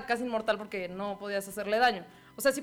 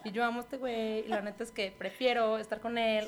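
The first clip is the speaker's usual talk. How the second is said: imitating Elena. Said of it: "si imitara a Elena sería como".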